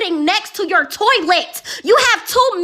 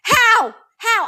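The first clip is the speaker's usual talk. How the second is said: yelling; 4 semitones higher than usual. Real, not acted. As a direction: shout it out in real frustration. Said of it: "I'm sorry for yelling".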